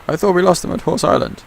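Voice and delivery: a high, loud captain's yell across the water. Acted. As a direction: call out in alarm to the crew. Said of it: "She yelled".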